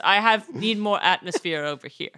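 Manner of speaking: British accent demo. Shown as a demonstration. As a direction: model the British accent for learners. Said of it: "good hook phrase to get into the accent".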